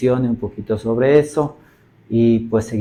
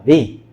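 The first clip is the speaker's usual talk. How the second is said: vi isolated and emphasised; stressed syllable alone; 4 dB louder than usual. Shown as a demonstration. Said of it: "Esta es la sílaba tónica".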